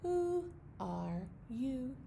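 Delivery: high hoots then a slow "who are you"; hoot, then stretch the question out; owl hoots. Pretend. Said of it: "The owl in the tree says".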